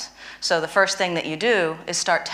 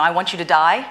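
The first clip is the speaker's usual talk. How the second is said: mock angry outburst; 5 dB louder than usual. Shown as a demonstration. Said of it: "you know".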